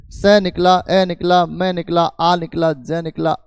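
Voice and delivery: स, ए, आ, ज spoken one by one, each sound separate; sounds split apart. Shown as a demonstration. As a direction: break समाज into single sounds, स निकला, ए निकला. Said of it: "यूं करके सारे साउंड निकले हैं". (हर ध्वनि को अलग अलग बोलकर दिखाना)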